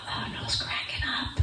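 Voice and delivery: soft, near-whispered aside; mock aside. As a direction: murmur it like teens exchanging glances. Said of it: "looking at each other like".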